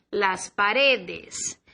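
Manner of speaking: las paredes said slowly; slow model word. Shown as a demonstration. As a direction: draw out paredes for the class. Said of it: "La pared". ("paredes" dicho despacio)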